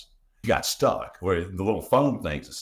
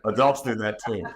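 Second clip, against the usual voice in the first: laughing echo; 3 semitones higher than usual. Real, not acted. Laughing echo of partner's remark.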